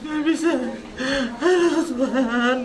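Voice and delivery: sob-laugh breaking down; laughing through tears. Real, not acted. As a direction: crack between laugh and sob. Breaking down at mother's death. (tertawa sambil menangis)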